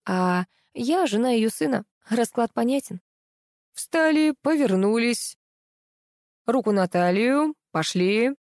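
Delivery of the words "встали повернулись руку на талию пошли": commanding. A narrator's reading. Director commands the line of girls, firm orders. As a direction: drill the models like a stage director. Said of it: "скомандовал Зиновий".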